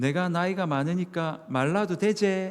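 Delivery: put-on broad, homey, slow Gyeongsang accent. Quoting an older deacon's remark to a new preacher, in broad gyeongsang dialect. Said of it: "구수한 경상도 사투리로".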